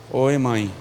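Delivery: put-on low, subdued child's answer; filho respondendo. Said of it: "Aí Josué responde lá". (filho respondendo à mãe, baixo e grave)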